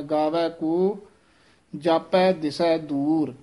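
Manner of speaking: ਦਿਸੈ with a soft, undoubled consonant. Shown as a demonstration. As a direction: keep ਦਿਸੈ light, no tightening. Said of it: "ਦਿਸੈ ਪੋਲਾ ਹੀ ਬੋਲਣਾ ਹੈ".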